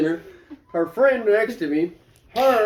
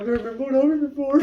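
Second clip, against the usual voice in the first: higher, quick flustered blurt; lightly imitated tearful panic; 5 semitones higher, faster than usual. Sister answering the cop, mildly imitated flustered panic. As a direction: blurt it in mild mock distress. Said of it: "He starts crying".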